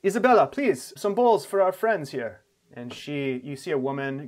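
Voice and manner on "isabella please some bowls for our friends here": loud, high-lifted host voice; host calling out. Acted. Game master as host calling the cook for bowls, loud and raised. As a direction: call across camp for service. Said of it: "he says".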